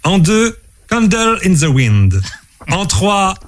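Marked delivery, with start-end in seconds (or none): 0.9-2.2 English title in a French accent; quizmaster's French-accented English. Real, not acted. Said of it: "entraîne ton accent anglais aussi".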